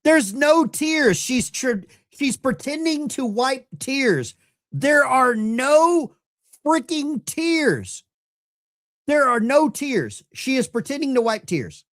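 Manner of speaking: high, slow disbelief at fake tears; incredulous outburst. Real, not acted. Calling out fake crying.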